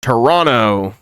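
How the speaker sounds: Toronto said without the last T, like tor-ON-oh; Toronto as a local says it. Shown as a demonstration. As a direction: drop the second T in Toronto. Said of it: "You don't pronounce the last T".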